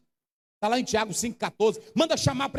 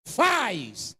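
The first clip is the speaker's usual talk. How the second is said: demanding; much slower than usual. Shown as a demonstration. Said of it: "ele se dirige assim".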